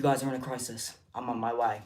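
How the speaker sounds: put-on a light British nanny accent; Super Nanny impression. Streamer imitating Super Nanny, light British accent. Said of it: "That's Super Nanny".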